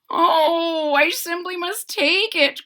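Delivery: he can't resist the kitten; eager cry. Acted. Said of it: "cried the very old man".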